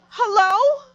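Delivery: high little mock Hello; a baby calling out on the phone; imitating baby hello. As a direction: chirp it like a toddler answering. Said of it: "she just yells out".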